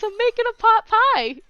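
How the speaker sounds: loud, high-pitched mock Boston accent; badly faked Boston accent, called out excitedly; attempted Boston accent. Imitating the man by the fire answering tourists, mock Boston accent. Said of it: "attempted to do the Boston accent".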